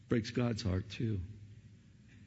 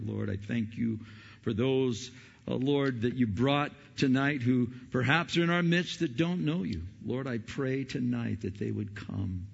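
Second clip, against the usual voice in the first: pastoral prayer. Acted. Pastor praying over the congregation, earnest pleading prayer. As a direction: pray it aloud, pleading for the lost.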